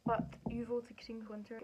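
a hushed teasing jab at the audience; whispered aside. Real, not acted. Teasing viewers who picked the harder option, whispered. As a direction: whisper it like a playful secret.

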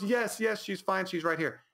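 high-pitched imitation of a weepy drunk; mock crying. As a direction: blurt it in a hammed-up tearful voice. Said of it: "he's so belligerently crying".

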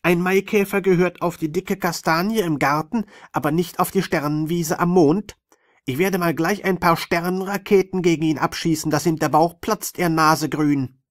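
high, loud angry scolding; squeaky alien. Acted. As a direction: keep squealing with fury. Sandmann rages at the Maikäfer.

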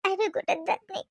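loud, high, desperate plea; distressed pleading. Acted. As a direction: cry out that she has nowhere to go. Distraught daughter-in-law pleading. (हताश होऊन मोठ्याने विनवणी करणे)

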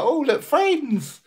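high, slow little cat voice; cat's voice. Retold or imitated. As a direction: speak as the timid cat meeting friends. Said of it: "He'll be like".

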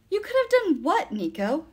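high, loud challenge; heated confrontational question; challenging. A narrator's reading. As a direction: demand an answer, pitch leaping up. Will challenges Nico in a quarrel.

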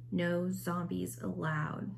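stern counterman. A narrator's reading. Counter man reading sign.

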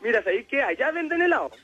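mock-helpful suggestion, rising high at the end; ironic. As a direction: play innocent with light irony. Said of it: "yo le digo irónicamente". (irónico, haciéndose el inocente)

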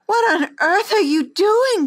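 loud, high demanding question; sharp and high with surprise. Acted. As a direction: demand an answer, indignant. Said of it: "she demanded".

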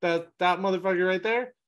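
like spotting a celebrity across the yard; eager excitement. Retold or imitated. Amyrlin spotting Rand on the wall, excited. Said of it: "She just, like".

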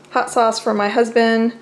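ordinary talk

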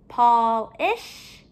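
POLISH with a break before "ish"; ending separated. Shown as a demonstration. Teacher comparing word endings for pupils, final syllable separated. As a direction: split POLISH in two, ending rising.

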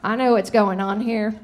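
light presidential impression; a hint of a smug-in-the-know politician; George Bush. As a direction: lightly imitate a president catching on. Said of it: "That was my Bush impressionation".

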